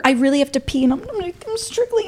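high-pitched frantic retelling; hammed-up flustered panic, pitched high; mock panic. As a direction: act out a struggling, panicky little kid. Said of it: "so I'm panicking".

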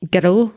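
put-on "girl" in two syllables, like "geh-dul"; Scottish pronunciation. Shown as a demonstration. Showing the best Scottish word, two-syllable "girl". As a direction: tap the R in "girl", Scottish-style "gerr-ul". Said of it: "the best Scottish word".

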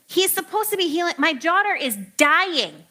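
anxious father Jairus. Retold or imitated. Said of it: "can you imagine Jairus being like".

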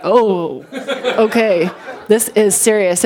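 laughing through a mock-stunned oh okay; amused shock at the wound; laughing alarm. Mom in the ER seeing the cut, laughing in mock alarm.

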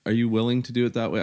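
mild imitated yell; retold yell. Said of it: "I just yelled at her".

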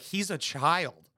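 slow, flat mock delivery of He's a child; mocking the wife. Mimicking the wife dismissing her husband, slow and dry. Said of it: "she's like".

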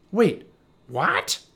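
alarmed shout. Acted. Mom hearing her son got lost, startled shout. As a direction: stop him mid-prayer in alarm. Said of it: "his mom shouted".

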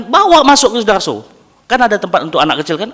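won't take no for an answer; urgent insistence. Retold or imitated. Father pressing doctor about Sudarso, urgent insistence.

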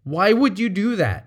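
sharp accusing why; accusatory question. Shown as a demonstration. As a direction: blame them. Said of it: "One sounds like you're accusing".

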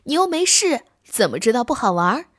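piqued, a touch defensive; indignant. Acted. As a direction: protest that he never even tried. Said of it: "不服气地说".

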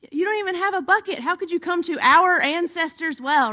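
tossing the objection right back; incredulous woman. Retold or imitated. Samaritan woman scoffs at Jesus, fast and incredulous.

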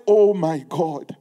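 slow, moaning oh my God; mock despair. Preacher acting out a believer crushed by news, mock despairing. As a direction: imitate someone crushed by bad news. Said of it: "burst into tears and say".

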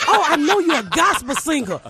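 lightly put-on gushing fan; imitating an eager assumer. Someone assuming the comedian sings gospel, mock excited.

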